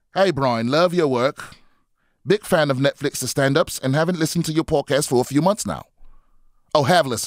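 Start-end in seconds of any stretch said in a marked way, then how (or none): 0.2-5.9 poor put-on London accent. Reading a listener's message aloud, in a bad london accent. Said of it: "trying to do my shitty London".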